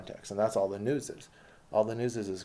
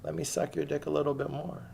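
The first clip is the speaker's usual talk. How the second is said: sarcastic fawning; 7 semitones higher than usual. Acted. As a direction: sneer while pretending to worship. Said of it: "I'm getting emotional".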